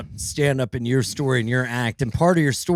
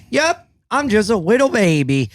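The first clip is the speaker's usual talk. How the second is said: high, babyish mock-innocent voice; nervous put-on baby talk; little baby voice; 9 semitones higher, 3 dB louder than usual. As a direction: say it like a tiny kid. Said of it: "I do a voice".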